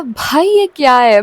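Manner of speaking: reacting to his threat text, stunned; alarmed question. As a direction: ask it in shocked disbelief.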